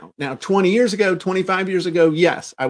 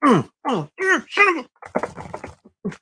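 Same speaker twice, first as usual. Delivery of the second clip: much higher, strained mock exasperation; frustrated swearing; 8 semitones higher than usual. Seller mimicking his own frustrated swearing at a customer, higher and strained. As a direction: act out a seller about to snap.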